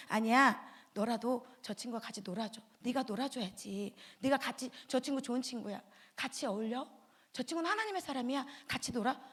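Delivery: put-on gently urging the child to be kind; the conscience whispering to the child; inner voice. Inner good voice, soft.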